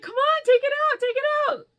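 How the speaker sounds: high, insistent mock chorus; friends' excited prodding, imitated; imitated egging on. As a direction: urge it high and loud, like impatient friends. Voicing friends egging her on.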